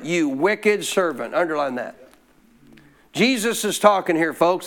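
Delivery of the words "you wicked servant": slow, weighty rebuke of the servant. Acted. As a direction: lean on "wicked" and stretch it out. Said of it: "Underline it".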